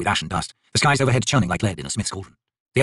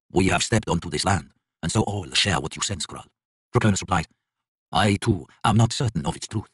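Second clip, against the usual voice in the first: low grave god voice; 3 semitones lower, 3 dB quieter than usual. Acted. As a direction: speak low and heavy. Draconis answers, lower.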